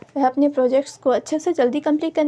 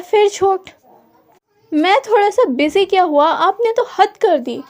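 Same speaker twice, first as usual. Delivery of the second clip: higher and louder, fed-up reproach; exasperated scolding; 4 semitones higher, 4 dB louder than usual. A narrator's reading. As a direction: call out the lie, then drag out the rest slowly. Caught lying, he scolds again. (गुस्से और झुँझलाहट में ऊँची आवाज़ से डाँटना)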